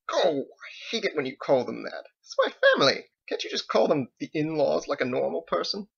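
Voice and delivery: high, scolding in-law defender; exasperated wife. Acted. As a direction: protest fondly but firmly. Wife chides husband.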